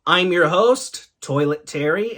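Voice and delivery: big, loud drawn-out host greeting; show host greeting. Pretend. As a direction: hail the audience loudly, stretching the words. Show host greeting his audience.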